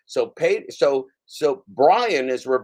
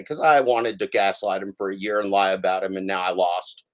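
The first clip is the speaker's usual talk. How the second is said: a mock defeated Pedro, lightly voiced; mock Pedro confession; 3 semitones lower than usual. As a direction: play him as a beaten, pathetic loser. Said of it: "And he'll just say".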